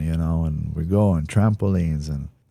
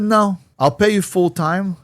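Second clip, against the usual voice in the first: eager offer; 13 semitones higher, 5 dB louder than usual. Retold or imitated. Retold offer to videographer.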